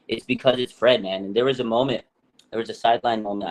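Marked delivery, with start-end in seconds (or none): none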